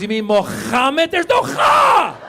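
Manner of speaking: slow, rising into a high shout; a mocking slow high yell; teacher mock correction. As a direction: drag it out, then yell the last words. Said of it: "She goes".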